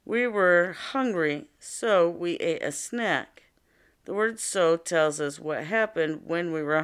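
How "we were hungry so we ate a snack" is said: a careful, measured read-aloud; slow example reading. Shown as a demonstration. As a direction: read the example slowly and clearly for the class. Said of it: "let's listen to another example here".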